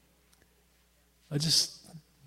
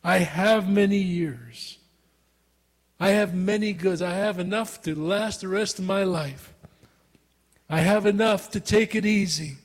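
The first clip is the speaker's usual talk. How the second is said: arrogant boast. Retold or imitated. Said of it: "this man in his arrogance said".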